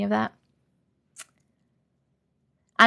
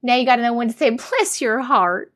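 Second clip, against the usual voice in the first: put-on Southern accent. Streamer showing off Southern talk to viewers, Southern accent. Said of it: "in a Southern accent".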